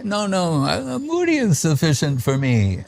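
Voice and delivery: a hint of a shy brahmachari politely declining; modest refusal. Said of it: "And he'd say".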